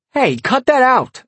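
high-pitched yelled protest; sharp shout, pitch jumping up; yelling. A narrator's reading. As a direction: yell at the kids to stop. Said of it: "I yelled".

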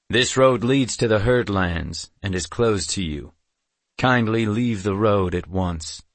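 lightly voiced stern warrior leader; firm, formal command, politely unyielding; stern guard. Amulon orders the caretakers off the road, stern.

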